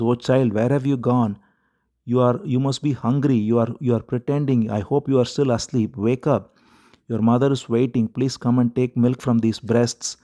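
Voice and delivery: gently pleading, lightly tearful mother; mother begging her baby to wake, understated sobbing plea; crying to the baby. Acted. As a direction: coax the dead child to wake, mild grief. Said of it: "She is still crying to this baby".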